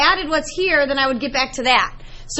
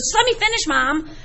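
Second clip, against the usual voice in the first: impatient daughter; 2 semitones higher, 3 dB quieter than usual. Retold or imitated. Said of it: "She goes".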